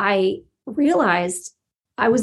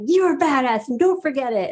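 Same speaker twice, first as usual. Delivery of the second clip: pitched-up admiring quote; lightly acted, insistent compliment; emphatic praise; 6 semitones higher than usual. Pastor praising her again at breakfast, retold with emphatic admiration.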